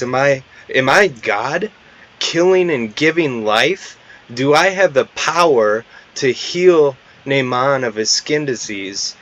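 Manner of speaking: mildly acted outrage, pitch climbing; a king's indignant, disbelieving questions; furious. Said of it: "he becomes furious".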